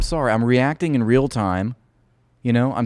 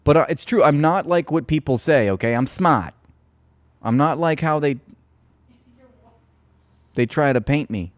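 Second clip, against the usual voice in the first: put-on higher, emphatic Boston accent; 4 semitones higher, 3 dB louder than usual. Streamer insisting he's not like people say, in Boston accent. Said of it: "do that in Boston. Boston accent".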